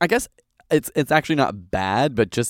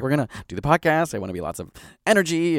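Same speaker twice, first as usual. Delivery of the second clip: excited; 5 semitones higher, much faster than usual. Retold or imitated. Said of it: "Or I was like".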